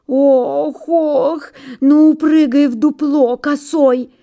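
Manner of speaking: high groans, then urging; groaning pine. A narrator's reading. Old pine lets the hare into her hollow, high groaning. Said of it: "закряхтела сосна".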